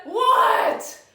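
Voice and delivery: high, loud startled grandma; alarmed shout. Acted. Grandma rushing to the screaming girl, alarmed high shout. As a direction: cry out in alarm.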